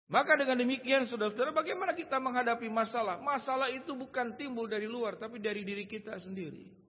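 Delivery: forceful preaching. Real, not acted. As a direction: press the point on the congregation.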